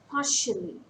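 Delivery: Partially with PAR punched, falling away; stress on first syllable. Shown as a demonstration. Teacher showing a three-syllable word, first syllable stressed. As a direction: hit PAR in Partially, lighter on the rest. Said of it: "Stress falls on the first syllable".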